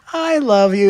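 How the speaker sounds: high, loud, overdone declaration; hammed-up lovey outburst; gushing affection. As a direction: gush it in a high swoop. Acted gushing declaration to child.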